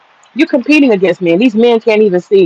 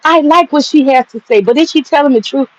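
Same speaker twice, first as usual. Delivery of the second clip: mocking the men; 5 semitones higher than usual. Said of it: "But the men cannot see".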